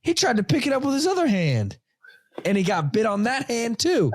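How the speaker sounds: put-on little girl voice. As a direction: quote the sister, kid-like and earnest. Daughter Harper quoted.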